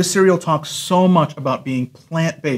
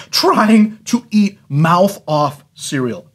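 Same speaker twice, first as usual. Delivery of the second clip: laughing; 3 semitones higher, slower than usual. Real, not acted. Laughing at the risk of choking.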